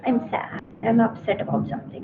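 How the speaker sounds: soft, subdued demo of sadness; sad and upset. Shown as a demonstration. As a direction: let the voice drop away, mildly upset. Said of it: "So my emotion is".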